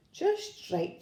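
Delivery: put-on high-pitched, pleased storybook girl; pleased little exclamation. A narrator's reading. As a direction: say it high, delighted by the fit. Goldilocks quote, pleased verdict.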